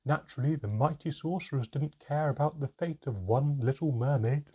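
loud, aggrieved account; bitter storytelling. A narrator's reading. Mermaid tells how sorcerers left her stranded, bitter. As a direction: recount the grievance with force.

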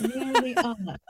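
laughing through the words; amused, breaking into laughter. Real, not acted. Echoing friend's joke, laughing.

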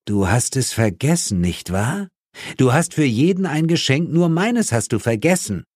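high-pitched, offended reproach; hurt accusation. Acted. Partner learning his Christmas gift was forgotten, hurt and accusing. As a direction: accuse a friend, wounded and indignant.

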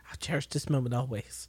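陶醉的轻声耳语; breathy hushed cherishing; whispered reverie. Retold or imitated. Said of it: "Like, I wish".

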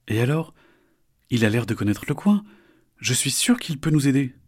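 put-on high, bright young turtle; a small turtle, disgusted; little turtle voice. Isor unbothered.

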